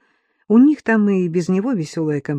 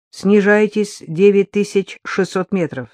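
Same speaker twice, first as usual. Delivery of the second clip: radio dispatcher voice; 3 semitones higher than usual. Acted. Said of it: "раздался голос".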